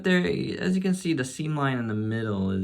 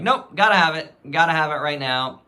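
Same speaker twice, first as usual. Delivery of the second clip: eager; 5 semitones higher, 6 dB louder than usual. Retold or imitated. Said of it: "I was just like".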